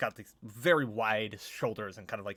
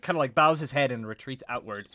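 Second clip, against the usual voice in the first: normal talking voice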